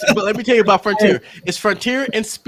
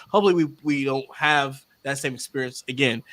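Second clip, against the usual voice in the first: said softer, mic pushed back; quieter; 7 semitones lower, 5 dB quieter than usual. Shown as a demonstration. Speaker not wanting to be too loud, softer. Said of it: "I don't wanna be too loud".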